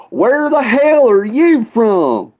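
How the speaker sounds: high, drawn-out redneck holler without much volume; old drunk redneck. Retold or imitated. Old drunk at the bar to newcomer, drunk redneck drawl. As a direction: put on a slow, high-pitched drunk Southern voice. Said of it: "this old drunk redneck turns around and goes".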